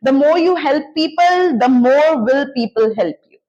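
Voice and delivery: very slow, each word set apart for learners; slow model sentence. Shown as a demonstration. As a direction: spell it out slowly like a teacher giving the example. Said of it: "teacher models the English sentence". (धीमे-धीमे, साफ़ बोलकर उदाहरण वाक्य)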